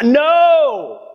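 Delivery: high-pitched mock-panicked protest; mock terrified. Preacher acts out refusing the Holy Spirit's call, mock terrified. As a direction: shoot up high, pleading out of it. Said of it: "I was terrified".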